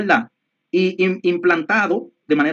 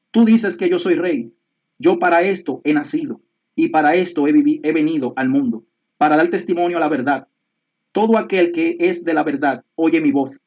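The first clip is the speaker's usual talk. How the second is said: scripture reading. Acted. Reads John 18 aloud.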